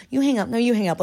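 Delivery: lightly mock a lovey phone goodbye; clingy girlfriend. Imitating a girl who won't hang up on her boyfriend, lightly clingy. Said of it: "the kind of girl that was like".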